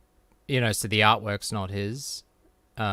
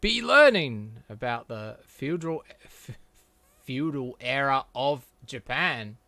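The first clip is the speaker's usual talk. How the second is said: teacher voice; 2 semitones higher, 6 dB louder than usual. Acted. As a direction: announce it like a strict teacher. Reading teacher's line from comic.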